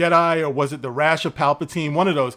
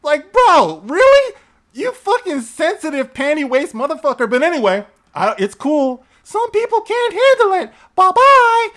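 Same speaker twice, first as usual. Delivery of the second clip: much higher, louder mocking voice; high cartoon voice; 10 semitones higher, 3 dB louder than usual. Shown as a demonstration. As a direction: taunt the critic in the squeaky voice. Mocking critic in put-on voice.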